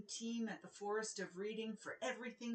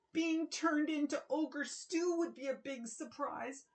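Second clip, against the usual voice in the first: fretting; 6 semitones higher, 3 dB louder than usual. Acted. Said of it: "fretted King Knish".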